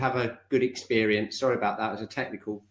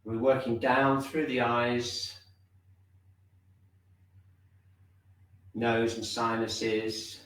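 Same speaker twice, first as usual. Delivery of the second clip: measured meditation guidance with long pauses; unhurried, spacing out each body part; guided body scan. Real, not acted. Teacher leading class inward from top to toe, guided body scan.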